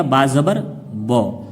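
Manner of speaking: slow, drawn-out recitation of each syllable; teacher's slow spelling chant; slow spelling drill. Shown as a demonstration. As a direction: spell it out slowly for children. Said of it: "खींच के पढ़ना है".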